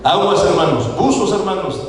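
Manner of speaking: playful, slowed caution with a laugh; laughing warning. Real, not acted. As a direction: warn them with a chuckle. Advertencia riendo a la congregación. (advertencia juguetona a los hermanos, riendo)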